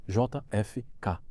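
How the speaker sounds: J F K said letter by letter, slowly; slow spelled-out letters. Retold or imitated. Spelling the name slowly for the prosecutor. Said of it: "Como se escreve?".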